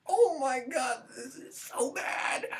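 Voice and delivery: breathy, fading groan of disgust; huffing under your breath at a bad movie; exasperated huff. Viewer huffing at the screen, exasperated and quiet. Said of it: "huffed and gone".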